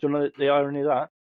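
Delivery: rushed, x2.2 pace; fast repeat. Real, not acted. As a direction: blurt it out quickly.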